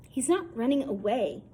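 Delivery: mildly impatient grandpa correcting; a touch of impatience, insisting. Acted. Grandfather correcting grandmother, lightly impatient. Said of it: "real impatient".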